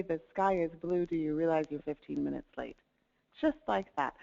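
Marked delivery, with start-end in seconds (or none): 0.0-1.1 plain matter-of-fact statement; as if stating a simple fact; flat neutral tone. Shown as a demonstration. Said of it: "just the same way you would say". 1.1-2.8 even, matter-of-fact; flat neutral tone. Shown as a demonstration. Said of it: "Just flat".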